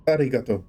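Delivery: "arigato" with a tapped Japanese R; tip-of-tongue R. Shown as a demonstration. University Japanese lesson recalled, tapped R in "arigato". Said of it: "It's the tip of the tongue R".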